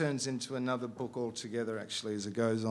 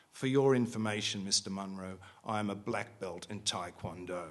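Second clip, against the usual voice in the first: matter-of-fact. Acted. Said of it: "as if imparting a simple, incontrovertible fact".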